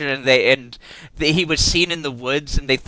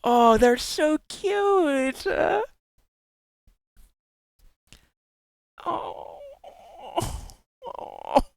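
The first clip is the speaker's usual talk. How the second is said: cutesy squealing; 12 semitones higher, slower than usual. Real, not acted. Streamer gushing at a bunny-pumpkin fusion, high squealing baby talk. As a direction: coo at it like a tiny pet, much higher and dragged out.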